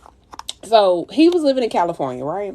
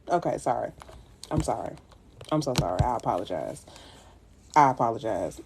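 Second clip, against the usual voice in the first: much softer, lower sheepish sorry; mock apology; 9 semitones lower, 8 dB quieter than usual. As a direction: back down meekly, half-joking.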